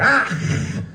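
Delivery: high recoiling "ah"; short hammed-up cry of fright; mock scared shriek. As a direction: imitate a startled creature fleeing. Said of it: "Just, like, scare him off".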